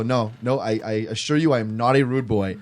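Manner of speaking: earnest denial with a hint of Irish accent; slipping into Irish. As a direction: protest with an accidental Irish lilt. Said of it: "All the Irish came back".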